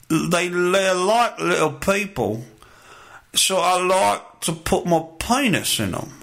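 badly faked English accent, drifting off. Comic retrying his impersonation of a criminal, shaky English accent. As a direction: attempt a clumsy English accent. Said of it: "I can't do the English accent anymore".

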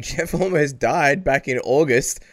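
slight laugh in the voice; stifle a laugh over grim news. Real, not acted. Telling co-host a fighter almost died, laughing. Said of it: "I'm laughing".

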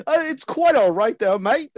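high-pitched mock Australian accent. Joker replaying friend's polite reply to a neighbour, mock Australian accent. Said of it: "I'm doing an Australian accent".

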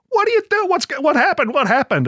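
high, flustered voices asking; confused crew. Retold or imitated. Crew reacting to a sudden noise on set, high flustered questions. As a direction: squeak out the panic of the crew. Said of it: "all the crew are going".

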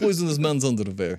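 comic Russian accent, played for laughs; second-try Russian accent. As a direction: do a silly Russian agent. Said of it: "There you go. Better".

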